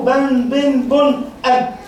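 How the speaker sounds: بن، بن، بن as ban, bin, bun, then أب closed on b; level recited بن، بن، بن، أب; tanween spelling drill. Shown as a demonstration. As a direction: chant بن، بن، بن with changing short vowels and a clear n, then أب. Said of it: "اذكري حرف من الحالات العشرين".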